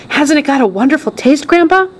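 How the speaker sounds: put-on high, wondering little boy voice; Charlie. A narrator's reading. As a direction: marvel to grandpa like an eager child. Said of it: "whispered Charlie".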